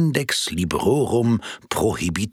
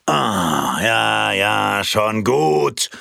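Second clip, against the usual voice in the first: snapping; 3 dB louder, much slower than usual. Acted. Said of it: "herrschte er sein Gegenüber im Telefon an".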